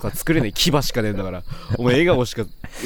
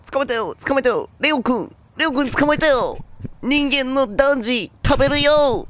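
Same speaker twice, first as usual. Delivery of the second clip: gleeful lion voice; 13 semitones higher, 4 dB louder than usual. Retold or imitated. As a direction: gloat like a lion with its prey. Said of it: "って言ってたら".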